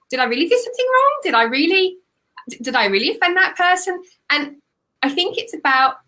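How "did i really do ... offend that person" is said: higher, anxious questioning; mild worried self-doubt. Acted. Business owner on the roller coaster, voicing mild self-doubt. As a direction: lightly act out second-guessing yourself.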